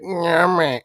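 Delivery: mock savoring, zesty; hammed-up food vlogger yum; zesty yummy. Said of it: "shook his head all zesty like and said".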